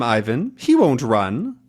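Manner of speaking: lightly put-on German accent; terrible German accent. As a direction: give orders in mock German accent. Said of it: "my terrible German accent".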